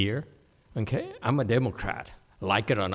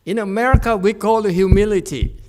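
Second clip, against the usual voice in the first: loud proclamation; 7 semitones higher, 9 dB louder than usual. Real, not acted. Teasing proclamation.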